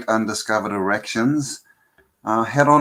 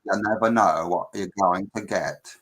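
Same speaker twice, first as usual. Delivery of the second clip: put-on southern accent; 3 semitones lower, 4 dB quieter than usual. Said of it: "I can do a southern accent".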